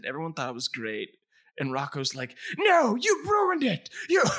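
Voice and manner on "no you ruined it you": high, loud, slow cartoon whine; whiny Rocco. Host mocking Rocco's complaint, high loud slow whine. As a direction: wail it like a sulky cartoon wallaby.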